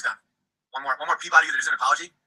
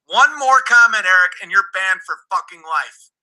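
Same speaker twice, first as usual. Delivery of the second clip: angry warning; 3 semitones higher, 5 dB louder than usual. Real, not acted. Streamer warning Eric one more comment gets him banned, angry shout. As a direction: lay down the last warning hard. Final ban threat at chatter.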